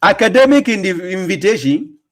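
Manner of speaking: scornful echo of academic invitation, voice rising on academic; mocking echo. Echoing the rival's phrase back to his viewers, mocking. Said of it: "that is not a proper academic invitation".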